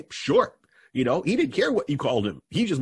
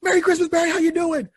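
much higher, louder merry greeting; cousin greeting; 5 dB louder than usual. Retold or imitated. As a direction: call out cheerfully, high. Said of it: "He's like".

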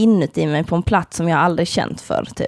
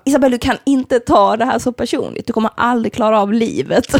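raised, emphatic telling-off; exasperated lecture; 4 semitones higher than usual. Retold or imitated. Colleague lectures her for taking it personally, exasperated. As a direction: imitate a colleague laying it on the line. Colleague scolding the crying employee.

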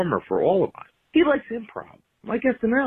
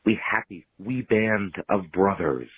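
grand theatrical speech delivery; Shakespeare recitation. Pretend. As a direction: declaim it like a stage actor. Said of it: "allow me to quote the Saint Crispin's Day speech".

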